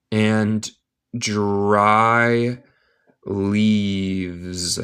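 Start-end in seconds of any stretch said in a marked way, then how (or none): 3.2-4.8 leaves said as one syllable, livz; no final e. Shown as a demonstration. Teacher shows students leaves as one syllable. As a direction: end leaves with a plain z, no e. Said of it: "No se dice la E final".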